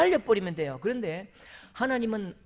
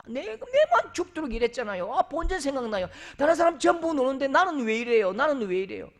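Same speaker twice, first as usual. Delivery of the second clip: whiny griping, pitched up and louder; resentful complaint; 6 semitones higher, 4 dB louder than usual. Retold or imitated. A grumbling believer whines to God, higher and louder. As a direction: sulk about doing all the work. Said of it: "이런 분에게는 원망밖에 없는 거죠".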